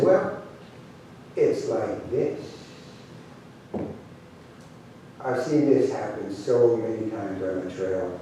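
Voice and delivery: put-on low, measured old hand; quiet, calm voice. Cookie teaching the gathered vaqueros, quiet and calm. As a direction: say it low and calmly, taking your time. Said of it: "talking in a real quiet voice, in a calm way".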